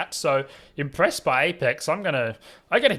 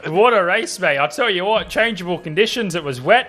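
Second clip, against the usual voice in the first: louder, higher hyped-up praise; excited commentator; 5 semitones higher, 9 dB louder than usual. Real, not acted. Commentator congratulating the podium driver, loud and excited. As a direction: pump up the driver in the commentary box.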